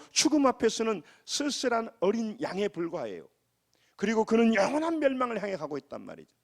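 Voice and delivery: high-pitched, pressing sermon delivery; impassioned preaching. Real, not acted. Pastor warning the congregation of death's coming, impassioned preaching.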